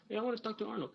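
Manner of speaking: a caller asking for Arnold; Arnold impression. Showing off impressions to a stranger, hammed-up. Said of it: "also do Arnold Schwarzenegger".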